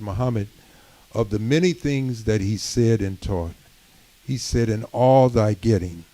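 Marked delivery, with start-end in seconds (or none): 4.7-6.0 the word all leaned on a little louder; stress on all. Shown as a demonstration. Preacher quoting a teaching, stressing all. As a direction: give all the weight in the phrase. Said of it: "and I put emphasis on the word all".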